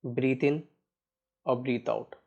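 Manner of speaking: measured, even meditation guide with long pauses; guided meditation. Real, not acted. Guiding listeners to watch each breath, unhurried meditation voice. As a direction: steadily guide listeners through breath awareness.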